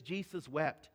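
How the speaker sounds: hushed verse. Acted. Quoting the shortest verse softly.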